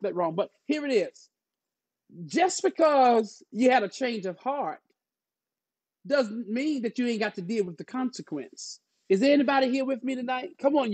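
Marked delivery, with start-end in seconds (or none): 2.3-8.8 emphatic opening, then a long pause; preaching. Real, not acted. Pastor warning church about consequences, emphatic preaching. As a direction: drive the warning home like a preacher.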